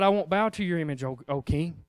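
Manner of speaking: low, soft, steady refusal; firm but hushed to the king; quiet defiance. Pretend. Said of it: "They said".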